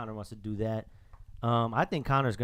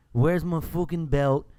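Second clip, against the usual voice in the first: shouting; 5 semitones higher, 8 dB louder, slower than usual. Retold or imitated. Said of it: "He's cursing up a storm".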